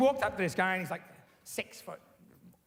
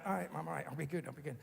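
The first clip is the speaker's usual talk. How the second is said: put-on softer, meek child's promise; meek reply; 2 semitones lower, 8 dB quieter, faster than usual. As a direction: mumble it like a cowed kid. Child placating threatening mum.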